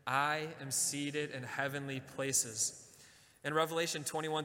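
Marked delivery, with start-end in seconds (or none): 0.1-2.6 slow, deliberate declaration with the congregation; slow affirmation. Shown as a demonstration. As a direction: lean into each word, unhurried. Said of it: "Can you say that with me?".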